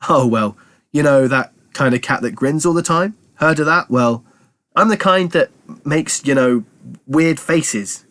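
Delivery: cat babbling an excuse in a rush; desperate Morris. Acted. Cat Morris fumbling an excuse to Militia, flustered. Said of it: "said Morris desperately".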